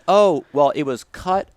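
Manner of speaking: bright banker explaining; bank lady. Retold or imitated. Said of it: "So she says".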